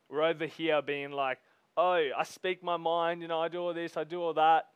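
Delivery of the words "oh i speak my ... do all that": mock boasting. Preacher mimicking people proud of speaking their minds, mock boastful. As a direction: imitate a self-satisfied blunt talker, slightly raised pitch.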